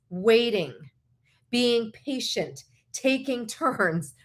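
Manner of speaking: drawn-out, spaced-out phrases; slow emphasis. Real, not acted. Speaker listing ground rules to listeners, slow emphasis. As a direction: stretch each rule out slowly.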